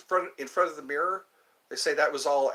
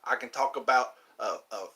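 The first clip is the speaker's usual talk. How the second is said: lightly put-on southern accent. Shown as a demonstration. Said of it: "I can do the southern accent all day long".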